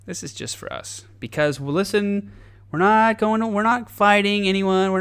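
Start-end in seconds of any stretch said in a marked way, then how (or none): 0.1-1.0 secretive whisper. Acted. Government hoarding secret tech.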